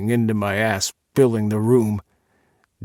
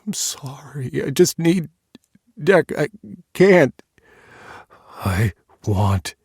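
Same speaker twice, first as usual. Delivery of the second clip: desperate pleading; 4 semitones higher, 4 dB louder than usual. Acted. Desperate tearful plea.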